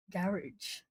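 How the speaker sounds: softly, "Garage" as GARR-ij; recognised pronunciation. Shown as a demonstration. Streamer testing viewer's point, soft "Garage" as GARR-ij. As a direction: say "Garage" to yourself, first syllable stressed, -ij ending. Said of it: "you're so right".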